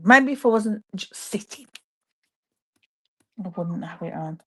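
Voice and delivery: whispered aside. Real, not acted. Telling viewers about the cardigan, whispered. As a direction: breathe it out as a half-whisper.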